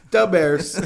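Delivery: mock Chicago sports-fan accent; hammed-up Chicago accent; Southern Chicago accent. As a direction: put on a joking Chicago accent. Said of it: "my Southern Chicago accent".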